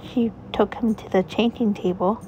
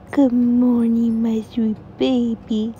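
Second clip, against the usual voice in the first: tender morning greeting; 4 dB louder, slower than usual. Acted. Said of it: "And she said".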